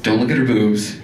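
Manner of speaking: whispered frantic self-talk, laughing; panicked inner voice. Retold or imitated. Comic whisper at the job interview, fighting not to look. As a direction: hiss it to yourself, half-laughing. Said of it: "And I'm like".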